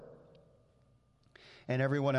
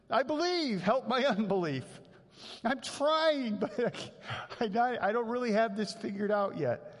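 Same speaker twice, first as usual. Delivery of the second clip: higher, louder, strained plea; desperate plea; 8 semitones higher, 3 dB louder than usual. Acted. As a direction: cry out that you can't quite believe. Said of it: "that's where I am sometimes".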